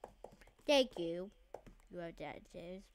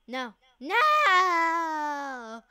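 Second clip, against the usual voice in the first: panicked shout; 6 semitones higher, 11 dB louder than usual. Real, not acted. Getting killed.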